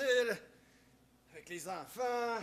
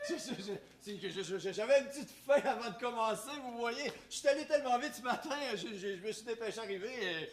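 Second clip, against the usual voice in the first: flustered stammer; 3 dB louder than usual. Acted. Stammering excuses.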